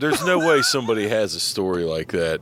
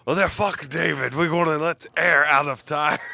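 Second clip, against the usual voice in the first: higher-pitched, hammed-up Russian accent; shitty Russian accent; 4 semitones higher than usual. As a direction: put on a bad Russian accent. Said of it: "It's my shitty Russian accent".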